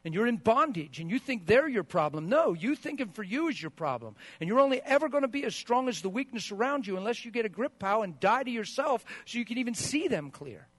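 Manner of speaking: loud, high rebuke; preaching at full force. Real, not acted. Pastor rebuking an angry spouse, loud and high. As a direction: hammer it home to the congregation.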